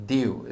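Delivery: "Diu" said as in Welsh; Welsh pronunciation. Shown as a demonstration. Teacher shows learners the word for God, Welsh pronunciation. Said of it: "is the pronunciation there".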